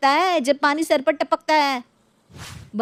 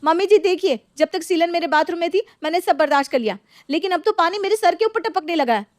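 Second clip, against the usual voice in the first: angry complaint; 5 semitones higher than usual. Acted. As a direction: storm in and protest hotly. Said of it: "रक्षा गुस्से में पैर पटकती". (गुस्से में ऊँची आवाज़ में शिकायत)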